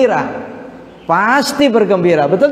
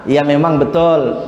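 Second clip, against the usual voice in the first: usual speaking voice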